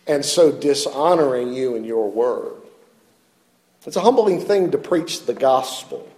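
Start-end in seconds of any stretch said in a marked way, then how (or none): 0.0-2.5 prayer. Retold or imitated. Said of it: "more noble prayers".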